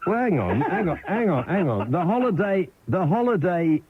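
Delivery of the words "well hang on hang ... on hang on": giggling protest; host fighting off the giggles; laughing through words. Real, not acted. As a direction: try to talk through laughter. Host laughing, trying to continue.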